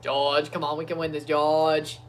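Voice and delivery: badly faked Austrian team boss accent; Toto Wolff. Fan imitating team boss urging George, rough Austrian accent. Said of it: "I can't do the Toto Wolff accent".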